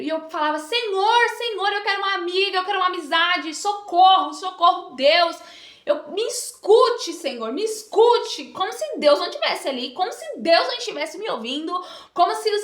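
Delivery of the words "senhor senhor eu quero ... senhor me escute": pleading cry to God, pitched up; retold crying out. Girl alone in school bathroom begging God for a friend, raised plea. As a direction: call out to God for help, half re-enacted. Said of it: "comecei a gritar dentro do banheiro".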